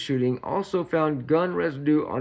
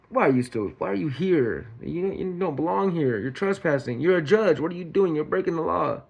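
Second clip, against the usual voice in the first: higher-pitched mock scolding; exasperated, rapid-fire challenge to an ex; indignant confrontation; 3 semitones higher than usual. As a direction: act out telling off an intruder. Acting out confronting the intruding ex.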